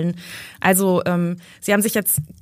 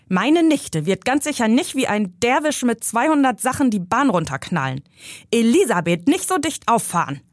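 put-on higher, scolding old uncle; indignant uncle; 4 semitones higher than usual. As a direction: put the upstart in his place. Uncle scolds Jano and niece.

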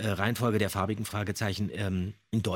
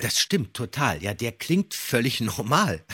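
ordinary talk, nothing marked

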